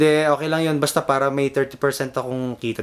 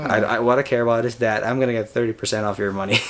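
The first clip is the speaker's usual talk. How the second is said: laughing; 2 semitones lower than usual. Real, not acted. Joking about taking a cut.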